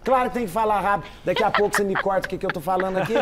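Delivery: quick, insistent delivery; talking fast. Real, not acted. Guest priest defends speaking fast before being cut short, talking fast. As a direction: rattle it off in self-defence. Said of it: "falou que eu tô falando rápido".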